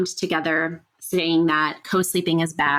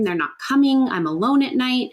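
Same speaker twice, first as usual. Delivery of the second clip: higher, voicing a scared little kid; a touch of a worried child's voice, higher; child's inner voice; 6 semitones higher than usual. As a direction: speak as the lonely child at night.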